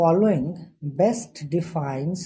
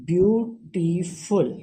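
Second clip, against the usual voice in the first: slowly spelled-out example; much slower than usual. Shown as a demonstration. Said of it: "For example".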